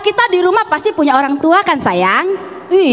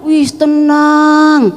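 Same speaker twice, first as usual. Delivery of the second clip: relieved; 3 dB louder, much slower than usual. Acted. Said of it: "perasaan kita gimana?".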